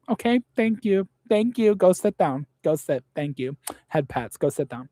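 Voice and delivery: high dismissive mock-sweet voice; condescending. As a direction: pat them on the head with words. Brushing off vaping critics.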